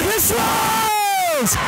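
drawn-out he scores shout; long goal yell. Real, not acted. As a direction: hold the goal call long. Goal call by announcer.

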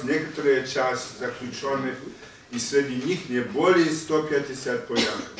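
deliberate, emphatic reading of a document; formal reading aloud. Real, not acted. Lecturer reads Molotov's answer to the class in Russian, formal reading. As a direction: read out an official statement in Russian.

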